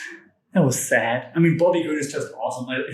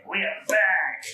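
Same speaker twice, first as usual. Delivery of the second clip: raised pitch, playful "we're back"; playful announcement; 4 semitones higher than usual. Pretend. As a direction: prompt the cat in a higher voice. Prompts the cat a second time.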